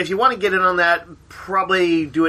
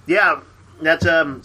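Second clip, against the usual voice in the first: mouth full; 2 semitones lower than usual. Real, not acted. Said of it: "sorry, I have chocolate in my mouth".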